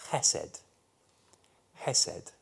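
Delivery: chesed, the Hebrew way; Hebrew word chesed. Shown as a demonstration. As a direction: say chesed like hesed, an airy h. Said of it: "'cause it's a ch sound".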